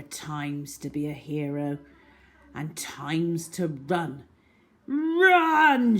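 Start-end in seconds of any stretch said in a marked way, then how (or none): 4.9-6.0 higher, louder urgent shout; boy fleeing a tiger. A narrator's reading. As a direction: yell at her to run. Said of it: "shouted Algy".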